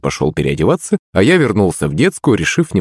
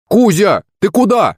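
exclaiming; 12 semitones higher than usual. Acted. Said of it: "воскликнул я".

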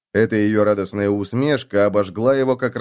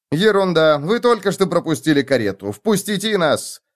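indignant; 6 semitones higher than usual. Acted. Felix bluffing as arrogant lord.

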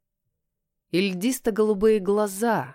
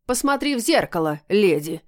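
an angry bark, леди louder; зло рявкнул; 3 dB louder than usual. Acted. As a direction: bark it at her in anger. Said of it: "зло рявкнул кот". (кот зло рявкает на героиню)

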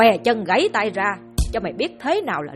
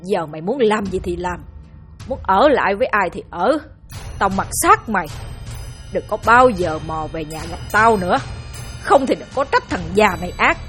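furious disowning; 4 dB louder than usual. Acted. Father disowns son in rage.

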